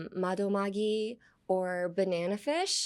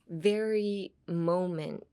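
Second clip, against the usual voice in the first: VERY drawn out before "moment"; slow, weighted "very moment"; emphatic "very"; much slower than usual. Shown as a demonstration. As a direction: stretch "very", then land on "moment". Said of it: "it pretty much, like, emphasizes".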